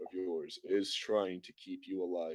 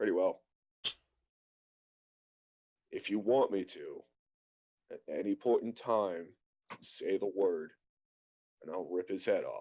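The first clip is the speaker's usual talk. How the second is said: whispering in a character voice. Leaning in to whisper to Yuldoris: whispering in character. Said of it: "I'm gonna whisper this in his ear".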